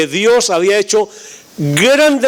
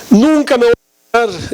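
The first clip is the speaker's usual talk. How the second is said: higher, louder mock wail of a little girl; mock crying girl; 4 semitones higher, 3 dB louder, faster than usual. Jilted ten-year-old wailing to the pastor, mock crying. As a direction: wail it like a heartbroken child, hammed-up. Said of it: "una niñita que estaba llorando".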